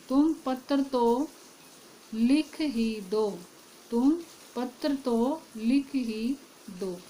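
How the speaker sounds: slow, with weight on "तो" and "ही"; teacher slowly shows the emphasis from "तो" and "ही"; stress on तो and ही. Shown as a demonstration. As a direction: say it slowly, pressing both "तो" and "ही". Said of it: "तो के द्वारा भी जोर डाला गया".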